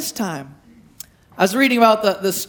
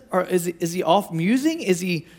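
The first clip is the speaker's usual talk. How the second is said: mock taunt; 3 semitones lower, 4 dB quieter than usual. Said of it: "he's totally trash talking".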